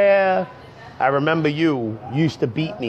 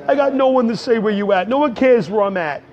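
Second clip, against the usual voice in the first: plaintive complaint; 6 semitones higher than usual. Acted. Continues the left-out lament.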